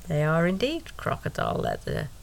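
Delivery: put-on German accent. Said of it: "she says in a German accent".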